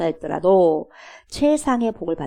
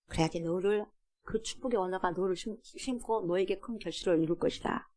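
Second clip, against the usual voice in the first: gentle motherly counsel; 2 semitones lower, 10 dB quieter than usual. Retold or imitated. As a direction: hush down and teach a son tenderly. Mother gently counselling her son. (아들을 타이르는 어머니의 나직한 목소리)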